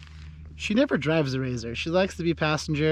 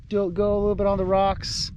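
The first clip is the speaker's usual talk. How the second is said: excited; 6 semitones higher, 3 dB louder than usual. Real, not acted. Excited sign-off to viewers.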